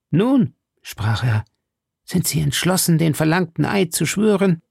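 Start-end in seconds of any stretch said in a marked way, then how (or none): 0.1-0.5 drohender Verführer. A narrator's reading. Verführer stellt Milady zur Rede. 2.0-4.6 drohender Verführer. A narrator's reading. Verführer fordert den Eid.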